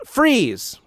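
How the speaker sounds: retold action-hero shout, pitched high; quick quoted "freeze" yell, not full force; mock movie yell. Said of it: "The first time Van Damme yells it, he yells".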